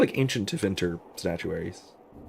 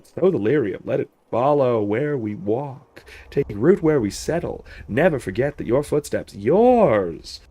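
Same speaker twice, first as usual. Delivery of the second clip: lightly voiced stern general giving a speech; a hint of a commanding officer rallying troops; Samson's voice; 2 semitones higher than usual. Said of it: "That's Samson's voice now".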